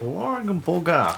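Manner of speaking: slow, laughing repeat of Blormbaga. Real, not acted. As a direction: echo the odd word while laughing. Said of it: "repeats the word".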